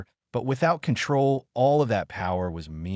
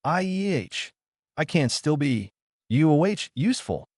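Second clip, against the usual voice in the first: gasping in pain; 6 semitones higher than usual. A narrator's reading. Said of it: "it gasped out".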